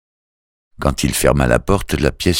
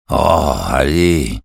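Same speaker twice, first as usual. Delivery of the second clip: coaxing; much slower than usual. A narrator's reading. Coaxing the silent family.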